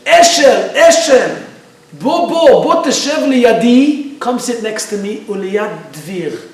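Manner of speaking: put-on loud, high call to a child across the crowd; yelling. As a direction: yell out for the boy, easing off at the end. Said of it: "yelling towards Eshel".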